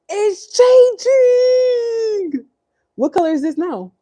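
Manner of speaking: put-on high sing-song voice for a toddler; baby talk. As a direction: coo it up high to the little one. Talking to the baby.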